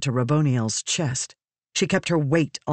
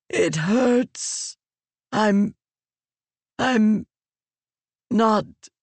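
halting, higher voice of a wounded being in pain; wounded Raboniel; 6 semitones higher, much slower than usual. A narrator's reading. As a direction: speak through the pain, breaking off.

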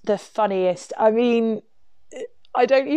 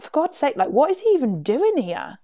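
higher-pitched exasperated outburst; retold exasperation, pitched up and swooping; 6 semitones higher than usual. Teller recalls finding him hunched over the toilet, exasperated.

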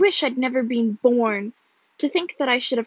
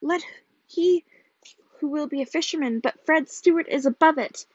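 higher, excited proclamation; exultant; 4 semitones higher, 4 dB louder than usual. A narrator's reading. Husband claiming his father's money, exultant. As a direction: boast of sudden riches, building to a hurrah.

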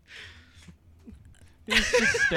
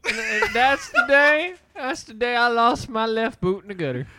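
mock-tearful; 5 semitones higher, 7 dB louder than usual. Mock-tragic redneck tale.

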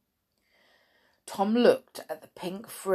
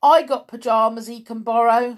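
higher, louder, quick offer; Cockney boy; 5 semitones higher, 8 dB louder, faster than usual. A narrator's reading. George offers Tom pyjamas, eager Cockney. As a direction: pipe up as a Cockney lad.

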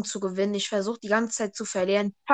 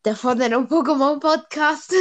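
laughing mockery; 4 dB louder than usual. Mocking podcast name with laugh.

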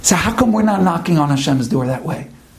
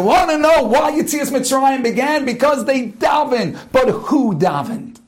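preaching shout; 4 semitones higher than usual. Real, not acted. Preacher driving home his point.

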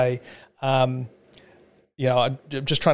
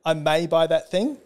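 vague Australian hedge; 3 semitones higher than usual. Retold or imitated. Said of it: "we walk into shops and we're like".

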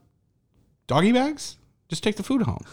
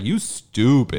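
mock audience heckle; much slower than usual. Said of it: "a black audience member is like".

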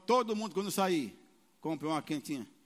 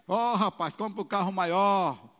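teasing laughingly; 6 dB louder, slower than usual. Retold or imitated. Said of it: "Mas rindo".

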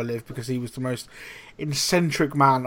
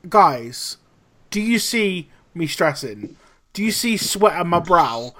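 put-on Colombian accent; 3 semitones higher than usual. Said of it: "this homage to his accent".

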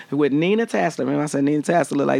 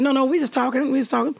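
mimicking the interviewers; 11 semitones higher, faster than usual. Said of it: "And they said".

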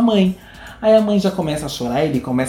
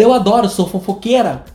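quoting Adriana Esteves; 5 semitones higher than usual. Retold or imitated.

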